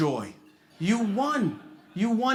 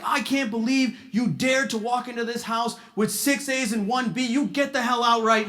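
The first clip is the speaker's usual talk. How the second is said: mock yelling parents; 3 semitones higher than usual. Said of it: "They were yelling at me".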